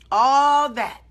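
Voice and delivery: loud mock outburst, pitch jumping up; going all out. Preacher showing how she could have blown up at the store, loud mock shout. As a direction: belt it like the pretend blowup tops out. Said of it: "I could have went all and did all that".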